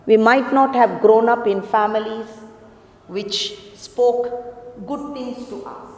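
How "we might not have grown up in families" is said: loud, ringing preacher's call to the congregation; full-force preaching. Acted. Preacher urging the congregation to imitate God, loud full-force preaching.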